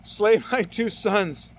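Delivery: slow, with a laugh breaking in after Slay; laughing reread. Acted. Preacher rereading Reuben's rash vow to the congregation, laughing. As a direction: chuckle at the absurd vow as you repeat it. Think that's gonna get back to his kids?.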